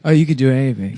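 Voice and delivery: lightly put-on, slurred impression voice; Donald Trump. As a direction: loose mock-politician voice. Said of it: "Trump with a retarded voice".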